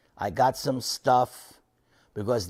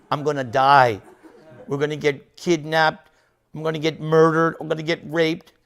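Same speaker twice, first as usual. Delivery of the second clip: hammed-up fear of impending doom; mock panic; 3 semitones higher, 3 dB louder than usual. Retold panic at hitchhiking at midnight.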